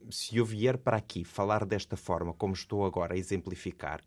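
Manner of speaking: every syllable spelt out, mechanical; over-articulated syllabling. Shown as a demonstration. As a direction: talk like a robot, syllable by syllable. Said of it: "quase que a silabar".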